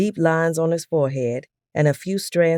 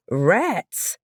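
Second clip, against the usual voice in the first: startled yell; 5 semitones higher than usual. A narrator's reading. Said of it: "Hubert and Claude yelled".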